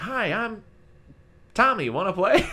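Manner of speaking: very high, loud, slow doll voice. Describing the scene where the doll greets Andy, in a high Tommy doll voice. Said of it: "high voice too".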